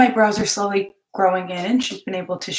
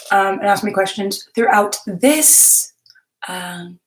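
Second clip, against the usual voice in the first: talking while chewing; words round a chewing mouth; 3 dB louder than usual. Real, not acted. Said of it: "sorry, chewing my teeth".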